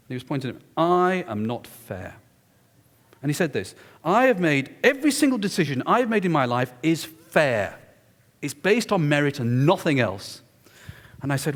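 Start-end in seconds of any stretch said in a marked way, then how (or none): 0.8-2.2 slow, weighty imitation of wounded pride; mock-indignant, deliberate; indignant challenge. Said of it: "absolutely determined". 4.0-10.4 emphatic, insistent self-defence, pitched up at first; retold indignant insistence; absolutely determined. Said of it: "absolutely determined".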